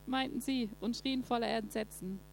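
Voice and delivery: steady, measured Bible reading; calm scripture reading voice. Acted. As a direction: read the passage to the congregation. Reads Bible passage aloud.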